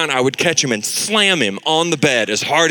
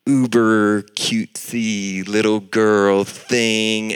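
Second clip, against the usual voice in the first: put-on cutesy little girl; 3 semitones lower, much slower than usual. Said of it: "she is doing the whole".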